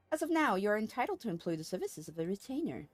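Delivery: lightly voiced courteous order leader; formal, lilting dialogue read-aloud; formal game character. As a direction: deliver it as a stately quest-giver.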